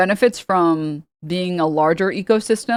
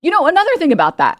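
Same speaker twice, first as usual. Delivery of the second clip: mock rambling teacher; 10 semitones higher, 4 dB louder than usual. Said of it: "He'd be just sitting there like".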